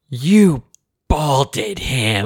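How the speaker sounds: mock-outraged little child, halting; Avery, mad. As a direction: imitate a furious three-year-old accusing dad. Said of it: "she was so mad".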